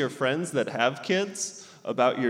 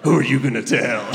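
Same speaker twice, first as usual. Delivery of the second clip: put-on defiant kid; 6 dB louder than usual. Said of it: "blow that smoke right in her face".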